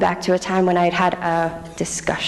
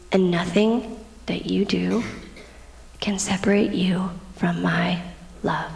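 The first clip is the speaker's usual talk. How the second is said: slow, gently voiced promise fading softer; tender reassurance; 5 dB quieter, slower than usual. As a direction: reassure slowly, letting the last word sink. God's reassurance, voiced by speaker.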